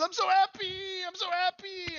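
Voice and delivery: squeaky, very high goblin glee; tiny excited goblin voice; Jingle Jangle, overjoyed. Acted. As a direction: squeal with hammed-up happiness. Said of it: "And he says".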